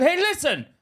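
high, loud mock shouting. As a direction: imitate a shop worker shouting a customer down. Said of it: "he's starting to raise his voice".

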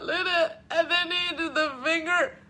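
high, worked-up hysterical retelling; hammed-up emotional meltdown; mock hysterical. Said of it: "and I'm, like, hysterical".

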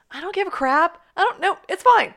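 high, loud and breezy, shrugging it all off; mock carelessness. Teammate brushing off the doctor's trance, mock careless and loud. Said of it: "and you're like".

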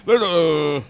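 low, rambling football commentator; John Madden. Acted. Football commentator ordering English food, low bumbling impression. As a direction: stumble through it like play analysis, pitched low. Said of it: "him ordering English food".

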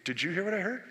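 conspiratorial murmuring; two men plotting quietly; soldiers conspiring. Acted. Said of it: "they said".

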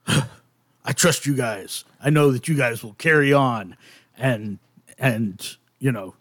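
a hint of a weary father figure; lightly voiced priest.

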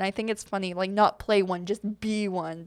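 ordinary talk, nothing marked

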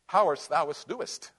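mock Elizabethan English. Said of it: "talk to God in Elizabethan English".

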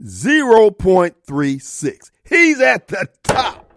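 slow, drawn-out sarcastic punchline; incredulous, deliberate mockery; mocking disbelief. Real, not acted. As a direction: let the absurdity land slowly.

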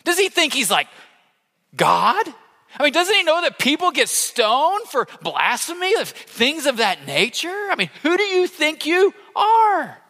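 a hint of scandalised scribes; indignant religious leaders. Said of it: "they were just thinking this".

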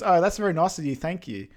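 overly polite. Retold or imitated. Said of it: "being politest girl in the world".

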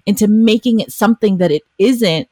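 acting out a touch of righteous anger; acted indignant retort. Acted retort in a couple's fight.

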